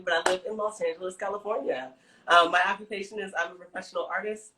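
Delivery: lisping from new braces; slight lisp on the s sounds. Real, not acted. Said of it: "Sorry for the lisp".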